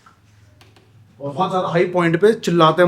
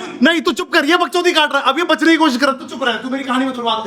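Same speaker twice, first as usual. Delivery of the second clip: much higher, excited telling-off; silencing a buddy who dodges the story; playful shout down; 9 semitones higher than usual. Real, not acted. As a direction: cut your friend off, laughing at him. Shouting down friend interrupting.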